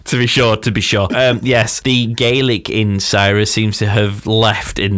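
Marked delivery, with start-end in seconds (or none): 0.0-1.1 hammed-up stock Irish phrase accent; bad Irish accent. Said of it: "really bad impression of your accent".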